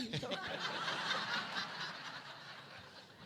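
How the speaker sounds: a long breathy laugh, falling away. Real, not acted. Guest laughing at her own nerves, a breathy laugh. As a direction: laugh it off, high and airy. Laughs after nervous remark.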